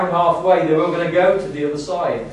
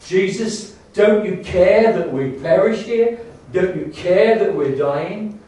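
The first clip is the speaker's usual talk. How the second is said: slow, louder, higher plea of terrified men; frightened pleading; 4 semitones higher, 4 dB louder, slower than usual. Retold or imitated. Disciples crying to sleeping Jesus, panicked, slow and louder. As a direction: beg for help as if drowning.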